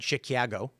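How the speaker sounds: "Chicago" said as shi-kee-AA-go; mock pronunciation. Shown as a demonstration. Chicagoan debunking the myth, "Chicago" as shi-KYAA-go. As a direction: put a nasal-stereotype "kyah" in the middle of "Chicago". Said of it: "never met someone who said".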